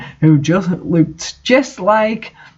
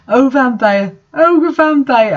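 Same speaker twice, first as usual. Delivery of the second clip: rising hammed-up cries, much higher and slow; screaming; 7 semitones higher than usual. A narrator's reading. Raven crying out to Vampire, slow mock screams. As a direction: draw out each cry, climbing higher. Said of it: "I screamed and screamed".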